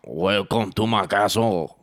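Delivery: slow, put-on French accent.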